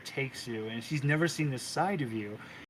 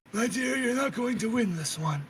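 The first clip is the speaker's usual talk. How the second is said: a hint of a sly creepy whisperer, higher; lightly voiced creepy Mister Creeper; 7 semitones higher than usual. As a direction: croon it as a sinister threat. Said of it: "puts it on your shoulder and goes".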